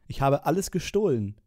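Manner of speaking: „gestohlen“ tonlos geflüstert, am Ende fallend; Flüstern. Acted. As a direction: den ganzen Satz ohne Stimme hauchen. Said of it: "dieses Flüstern immer zwischen den". (geflüsterte Liedzeile)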